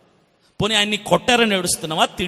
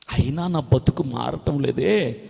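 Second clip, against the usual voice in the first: low, slow, soft grieving; subdued acted crying prayer; demonstrated tearful lament; 8 semitones lower, 5 dB quieter, slower than usual. Shown as a demonstration. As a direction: lament it quietly and slowly. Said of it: "అని ఏడు".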